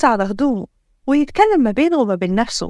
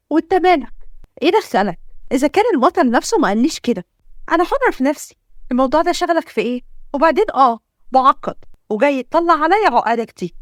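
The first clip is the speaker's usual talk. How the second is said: mildly heated, defiant heroine; indignant retort. Acted. Girl tells stranger to mind his business, indignant. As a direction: push back with a touch of temper. Acted quarrel, heroine snaps back.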